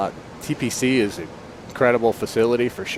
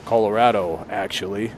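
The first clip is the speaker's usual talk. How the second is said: lightly imitated gravelly voice; low-key gravelly answer, retold; Ron; 4 semitones lower than usual. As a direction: mimic a terse man, low and unhurried. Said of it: "he's got kind of a gravelly".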